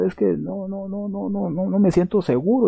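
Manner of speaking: high, hesitant stammering refusal; voiced doubter, high and faltering; doubting. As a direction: back away unsure, shaking your head. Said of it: "el cristiano dudando".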